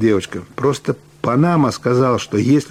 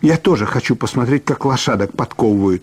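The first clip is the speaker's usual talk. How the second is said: put-on a spoilt girl bossing the boys around, pitched up; girl Yulya; 3 semitones higher than usual. Юля chatters in character voice.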